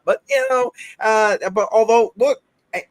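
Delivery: high excited interjection. Real, not acted. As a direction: burst in excitedly.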